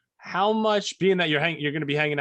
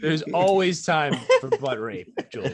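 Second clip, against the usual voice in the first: laughing tease; 3 semitones higher than usual. Pretend. Teasing friend, laughing.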